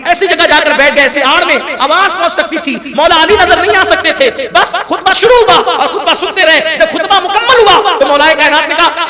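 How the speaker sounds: high, loud impassioned sermon delivery; soaring pulpit storytelling; full-force preaching. Acted. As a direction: preach it out with fervour to the hall. Preacher's emotional story opening.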